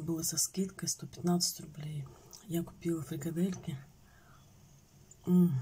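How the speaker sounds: spoon pressed against lips; speaking between spoonfuls; talking while eating yogurt. Real, not acted. Seen 1: Talks with loaded spoon at lips, then spoons yogurt in.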